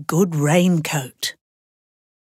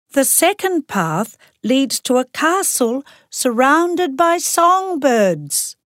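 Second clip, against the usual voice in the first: excited princess; 7 semitones higher than usual. A narrator's reading. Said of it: "said the youngest princess".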